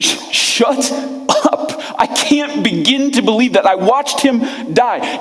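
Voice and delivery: mock slow, explosive, furious outburst of disbelief. Acting out Thomas answering his friends: imitating an explosive outburst. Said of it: "this explodes out of him".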